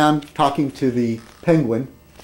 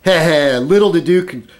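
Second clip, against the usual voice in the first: sly villain chuckle; 3 semitones higher than usual. Acted. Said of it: "Obama voiced as villain".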